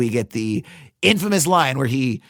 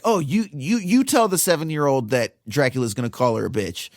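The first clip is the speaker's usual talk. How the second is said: higher, pushier bickering voices; acted crew argument; 5 semitones higher than usual. Writer and director passing the buck, bickering. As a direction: squabble like nervous filmmakers.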